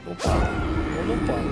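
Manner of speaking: high amused cry; surprised exclaim. Real, not acted. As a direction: squeal it in surprise. (удивлённый высокий возглас)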